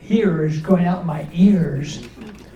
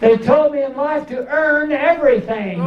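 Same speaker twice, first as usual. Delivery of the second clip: squeaky voice; 7 semitones higher than usual. Retold or imitated. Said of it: "this squeaky little voice".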